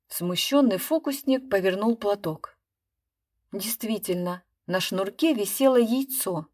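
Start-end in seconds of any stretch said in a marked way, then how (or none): none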